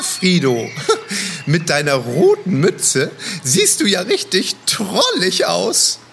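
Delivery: chuckling through the words; laughing. Acted. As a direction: laugh while you talk. Kasper laughing at Frido's cap.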